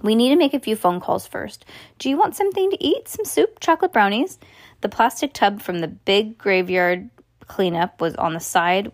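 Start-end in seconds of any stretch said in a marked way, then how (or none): 0.0-4.4 high, bright and eager offers; bright cheerful mum. A narrator's reading. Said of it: "said Mom brightly".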